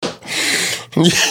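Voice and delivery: breathy tail of a laugh; winding-down laugh. Real, not acted. Host recovering from his own joke, winding-down laugh. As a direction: let the laughter run out.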